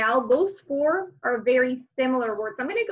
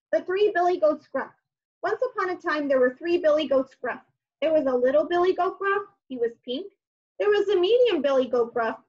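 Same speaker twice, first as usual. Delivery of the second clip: lively storytime read-aloud, a bit higher; story reading; 3 semitones higher than usual. Acted. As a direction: read it like a picture book to kids. Reads story to children.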